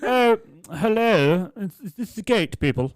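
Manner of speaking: put-on high, slow quavering old lady. Tradesman mimicking an elderly customer on the phone, high and slow.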